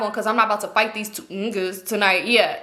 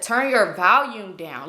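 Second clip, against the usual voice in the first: drawn-out words, each one weighted; slow, emphatic order; 3 semitones lower, much slower than usual. Retold or imitated. Woman warning friend about noisy phone, slowly and pointedly. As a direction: spell out the instruction very slowly.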